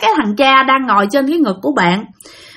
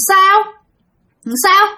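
a lightly voiced, higher mocking ghost woman; 4 semitones higher than usual. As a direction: tease the lovers as a spiteful old ghost, pitched up. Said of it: "Bà này bả nói rằng á là". (giọng bà ma chế giễu, hơi cao)

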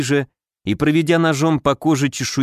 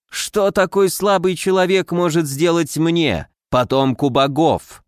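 haughty; 3 semitones higher than usual. Acted. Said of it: "надменно произнёс он".

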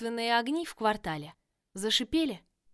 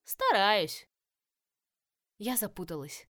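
moaning; slower than usual. A narrator's reading. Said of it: "простонала я".

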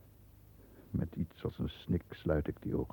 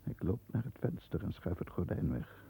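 ordinary talk

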